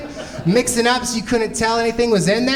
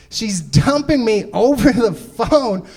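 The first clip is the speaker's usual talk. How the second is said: mock yell; 4 semitones higher, slower than usual. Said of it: "He just yells that out".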